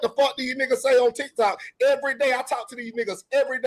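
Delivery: heated shout at the room. Real, not acted. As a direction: yell it out in frustration.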